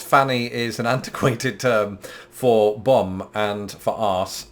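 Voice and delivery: slow, with a laugh breaking in; suppressed laughter. Real, not acted. Presenter defining rude words, holding back laughter. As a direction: struggle to get the rude words out straight. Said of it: "this is impossible".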